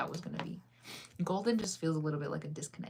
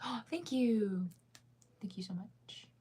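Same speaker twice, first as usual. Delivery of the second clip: breathless whispered thanks; 4 semitones higher, 3 dB quieter, slower than usual. Real, not acted. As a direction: whisper your thanks as if not to wake anyone. Whispered chat reply on stream.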